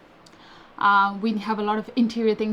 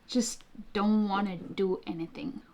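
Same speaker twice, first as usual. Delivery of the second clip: whispering; 8 dB quieter than usual. Real, not acted. Rainy day lazy mood.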